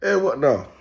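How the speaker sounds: put-on lightly Jamaican-accented "eh"; a touch of Jamaican greeting; Jamaican patois. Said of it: "Like my Jamaican people will say".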